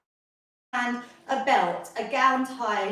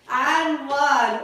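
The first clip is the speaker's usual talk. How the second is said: louder on the last count; punchy final count; 5 dB louder than usual. Real, not acted. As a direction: land the last count hard for the class. Coach ending countdown.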